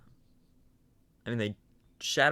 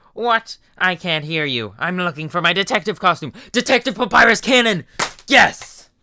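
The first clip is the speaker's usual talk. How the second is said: much higher, much louder exuberant yell; Papyrus shouting; 7 semitones higher, 10 dB louder than usual. Acted. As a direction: declare the detective persona. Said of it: "Papyrus voice".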